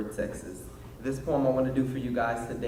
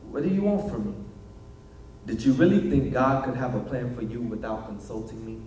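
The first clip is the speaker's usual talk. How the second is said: small inner voice. Acted. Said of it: "That small voice I'd managed to turn down".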